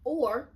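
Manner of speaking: or punched high and loud, hanging; stressed or. Shown as a demonstration. Host stressing the legal choice to listeners, punched or. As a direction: hit the word or hard so it stands out. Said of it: "I need you to re-listen to the or".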